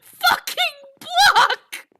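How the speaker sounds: loud laughing, slow; laughing yell. Real, not acted. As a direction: shout it while cracking up. Near death, laughing.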